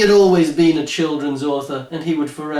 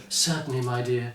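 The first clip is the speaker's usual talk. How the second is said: hidden irritation; 3 semitones lower, 7 dB quieter than usual. A narrator's reading. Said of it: "not showing even a hint of his irritation".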